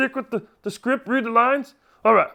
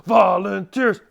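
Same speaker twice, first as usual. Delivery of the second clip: drawn-out chanted cheer; 4 semitones lower, slower than usual. Acted. Camp character cheering on all the volunteers, drawn-out cheer. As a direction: stretch each syllable like a cheerleader. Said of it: "I got a little cheer".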